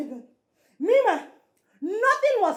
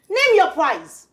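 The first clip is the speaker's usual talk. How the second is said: louder contempt; 4 dB louder, slower than usual. Acted. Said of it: "You're nothing but a low life".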